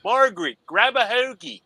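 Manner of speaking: high-pitched mock Philly accent, called out; Delaware County accent. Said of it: "coming to Delaware County, it's like".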